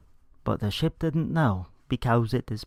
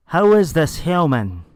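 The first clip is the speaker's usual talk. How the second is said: raised, higher shouting question; yelling cry; 5 semitones higher, 4 dB louder than usual. Acted. Doctor Zaius confronting the captured human, a loud yelling cry. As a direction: yell it out in alarm. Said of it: "cried Doctor Zaius with yelling cry".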